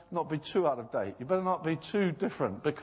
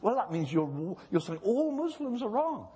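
higher, rising mock indignation; mock indignant bishop; 4 semitones higher than usual. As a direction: play the offended bishop lightly. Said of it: "Christian bishop saying".

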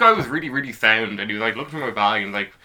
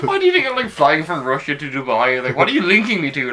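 laughing high retort; 3 semitones higher than usual. Retold or imitated. Mock retort to German guard.

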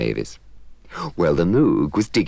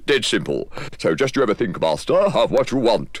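a touch higher, matter-of-fact genie; breezy servant explaining the rules; lightly voiced genie; 8 semitones higher than usual. The genie explaining wishes to the Moog, offhand.

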